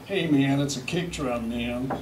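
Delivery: mock American. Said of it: "in America, you know, they go".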